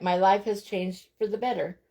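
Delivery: ordinary talk, nothing marked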